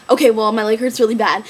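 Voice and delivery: says it through a laugh; laughing retelling of pain. Retold or imitated. Laughing while retelling injury.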